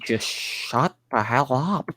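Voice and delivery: drawn-out, understated exasperated retort; mock exasperation. Fed-up retort to someone who missed the sarcasm, mock exasperation. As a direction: stretch the words out in mock exasperation.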